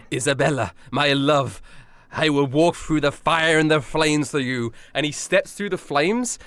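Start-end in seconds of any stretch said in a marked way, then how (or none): 0.1-4.7 mildly dramatic declaration of love; lightly played romantic hero, slowing down; dramatic lover. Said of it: "really dramatic moment for him 'cause he's like".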